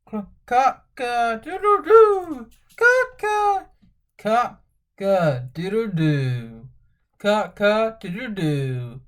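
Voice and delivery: loud crowing rooster. Pretend. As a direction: crow like a rooster. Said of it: "He can sound like a rooster".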